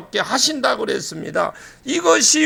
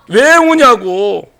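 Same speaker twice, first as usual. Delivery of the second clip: demonstrated angel's question; 5 dB louder, much slower than usual. Shown as a demonstration. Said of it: "내가 천사할 거야".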